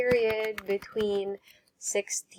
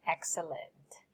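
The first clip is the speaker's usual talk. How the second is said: 1 soft praise; 3 semitones lower, 7 dB quieter than usual. Real, not acted. Teacher praising students.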